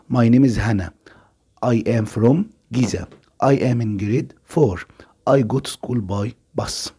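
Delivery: slow, deliberate dictation pace, each word clear; slow listening-test read. Shown as a demonstration. Teacher reads the listening passage to pupils, slow and deliberate. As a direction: read it out slowly like an exam recording.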